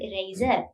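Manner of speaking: "eraser" with the last R dropped; silent final R. Shown as a demonstration. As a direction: end "eraser" on a vowel, no final R. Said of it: "R is silent".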